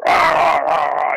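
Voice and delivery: shouted rah, rah like a wrestling promo; mock loud promo yell. Wrestler imitating Ox Baker cutting a loud promo, mock yell. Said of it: "he was being as loud Ox Baker".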